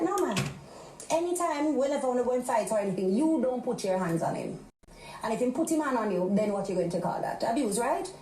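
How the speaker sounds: imitating mom laying down the rule; mother's voice. Mother tells daughter hitting back is wrong, lightly mimicked. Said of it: "She's like".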